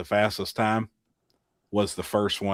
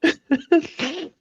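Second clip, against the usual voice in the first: high, loud laughing reply; 8 dB louder, slower than usual. Real, not acted. Telling Jamie it was great while laughing loudly. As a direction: answer while cracking up, real laughter.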